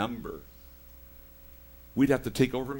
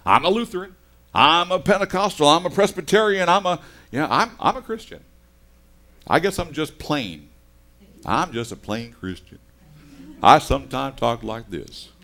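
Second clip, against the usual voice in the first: mock believers; 3 semitones higher, 6 dB louder than usual. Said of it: "we grab onto these things".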